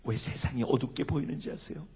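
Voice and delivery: ordinary talk, nothing marked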